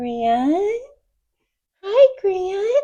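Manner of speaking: put-on teeny tiny, very high, sing-song baby voice. Act out how she walked up and greeted Grant, in a teeny tiny baby voice. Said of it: "she's got this little teeny tiny baby voice".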